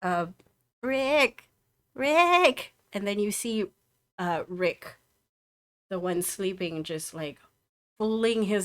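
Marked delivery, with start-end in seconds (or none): 0.8-2.7 high, loud call to wake him; calling a brother. Acted. Twin shouting to wake his brother, high and loud.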